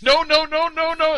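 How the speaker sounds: high, loud wimpy pleading; mock helpless protest. Host mimicking a man picked up by friends, high mock protest. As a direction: squeal the protest in a mocking imitation. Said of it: "he's like".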